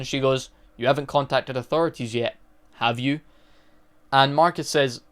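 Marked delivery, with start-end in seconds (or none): 0.8-3.2 a touch graver and quieter, understated threat; mildly menacing repeat of the question; more serious tone. Retold or imitated. Gladys pressing Marcus again, mildly more serious. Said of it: "says it again in more serious tone".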